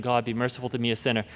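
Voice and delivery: soft, low, prayerful murmur; slow quiet prayer. Shown as a demonstration. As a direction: pray it slowly under your breath. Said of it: "praying it very slowly over and over again".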